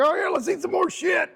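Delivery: high-pitched mock eagerness, then a No; mock enthusiasm. Fitness vlogger mocking people who keep overeating, mock enthusiasm. Mocking our bad eating choices.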